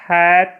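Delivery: हैट said loud, the short ae vowel; sounds out hat. Shown as a demonstration. Teacher recalling HAT for the class, clear demo. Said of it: "इसका उच्चारण".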